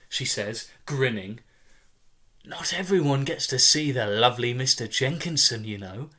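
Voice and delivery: lightly voiced chirpy mother, bright and upbeat; jolly him along, a touch sing-song; cheery mother. Mother at her injured son's bedside, chirpy reassurance.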